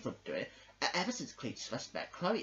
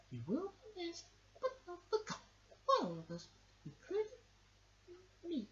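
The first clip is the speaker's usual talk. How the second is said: higher, teary goodbye; tearful farewell; 14 semitones higher, 4 dB quieter than usual. Acted. Toy mourning Cletus, teary goodbye. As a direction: choke up over the loss. Farewell speech at toy's funeral.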